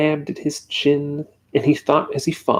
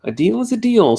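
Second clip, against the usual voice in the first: sharp, higher snap; snapped; 8 semitones higher, 4 dB louder, faster than usual. A narrator's reading. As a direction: cut him off impatiently. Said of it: "snapped the bug".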